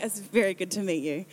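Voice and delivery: lightly put-on American accent; a hint of American in a polite reply; slight American accent. Replying to the new acquaintance, slight American accent. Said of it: "I changed my accent a little bit".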